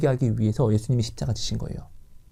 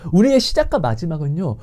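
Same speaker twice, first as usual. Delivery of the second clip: ordinary talk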